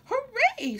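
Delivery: high, loud squeal of joy; joey cheers, high and loud; squealing hooray. A narrator's reading. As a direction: cheer with delight. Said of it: "squealed Roo".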